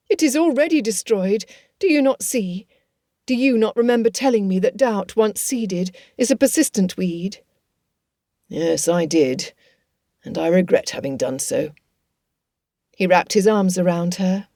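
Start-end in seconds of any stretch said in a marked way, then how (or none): 0.1-7.4 a hint of a flustered gentlewoman excusing herself; lightly voiced distressed young woman. Elizabeth voiced higher. 8.5-11.7 a hint of a regretful old father; lightly voiced rueful father. Father slower lower.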